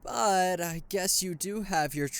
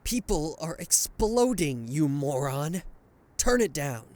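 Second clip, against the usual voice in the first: loud exasperated order; angry yell at minion; 4 dB louder than usual. Acted. Villain yelling at his minion to turn it down. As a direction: snap at the idiot minion.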